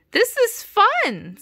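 very high, loud, stretched-out squeal; excited little character exclaiming; gleeful cry. Acted. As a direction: cry it out slowly in delight. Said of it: "Sally cried".

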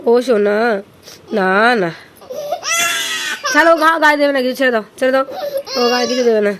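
mother loudly comforting crying son; loud soothing. Real, not acted. Soothing screaming feverish child.

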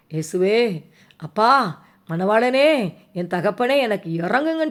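demonstrated cry to Jesus for mercy; pleading prayer. Shown as a demonstration. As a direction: call out each name imploringly. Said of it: "சொல்லி கேளுங்க". (கெஞ்சும் ஜெபம்)

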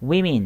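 women as "wimin", i in both syllables; women with i sounds. Shown as a demonstration. Teacher confirming the word, women pronounced "wimin". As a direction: say women as "WIM-in", never with an o sound. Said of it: "い、いって音発音します".

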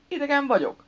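high, loud startled echo; taken aback. A narrator's reading. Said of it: "hökkent meg". (magas, meghökkent felkiáltás)

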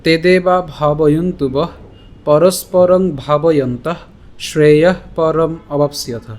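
slow, careful verse recitation, each phrase set apart; slow Sanskrit recitation. Shown as a demonstration. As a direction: recite the shloka slowly and clearly. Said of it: "আজকের শ্লোকটি হল". (ধীরে সংস্কৃত শ্লোক পাঠ)

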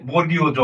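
"বর্গীয় জ" said distinctly as a model; standard pronunciation. Shown as a demonstration. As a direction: pronounce the letter name "বর্গীয় জ" carefully for learners. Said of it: "এটার উচ্চারণ হবে".

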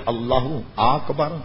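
mispronounced اللہ اکبر, a bit slow; wrong takbir. Shown as a demonstration. Teacher demonstrating a wrong pronunciation of the takbir. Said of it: "یہ بھی غلط".

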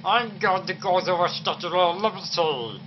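slurred pretend drunk. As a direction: slur it like you're tipsy. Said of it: "I'm so bloody drunk".

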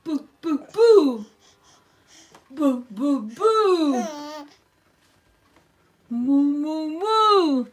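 sing-song boo and moo. Real, not acted. Playing sounds with a toddler.

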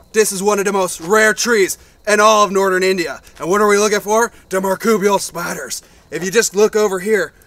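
loud eager wildlife presenter; nature show host. Acted.

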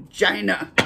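CHINA punched out like "Jyna"; CHINA said as an exaggerated "JY-nah"; imitated pronunciation. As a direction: mimic his way of saying CHINA, hard J-like start. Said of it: "That's not how he says it".

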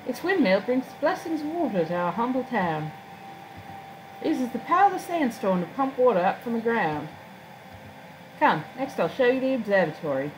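lightly voiced formal guide; courteous town guide. Guide showing off the town's windmill, courteous formal voice. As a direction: show visitors round with polite, lilting formality.

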